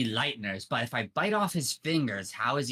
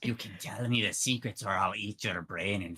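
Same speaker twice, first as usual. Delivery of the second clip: low, creepy voiced threat; menacing mock whisper; 5 semitones lower than usual. Tongue round the guy's face, whispering threats, low. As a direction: lower the pitch for a creepy threat. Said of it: "he's whispering things like".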